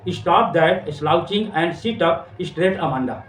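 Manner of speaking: very slow, each word drawn out; slow recital. Shown as a demonstration. Teacher reading mother's scolding line, very slow. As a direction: read the line slowly, word by word. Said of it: "वो कहती है".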